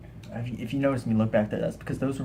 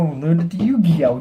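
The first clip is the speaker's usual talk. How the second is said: high mocking sing-song; high silly voice; 5 semitones higher, 6 dB louder than usual. Silly self-mocking aside.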